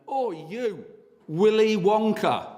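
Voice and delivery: retold yell. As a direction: call it out across the road, stretching Willy Wonka. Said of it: "he went".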